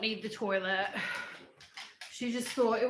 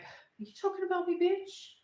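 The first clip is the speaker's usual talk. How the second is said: high, sassy dog voice; put-on pitched-up voice for an offended pet; imagined voice of Lola; 7 semitones higher than usual. Owner voices her dog's judging look, sassy imitation. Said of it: "She's looking at me. She's guilting me. Like".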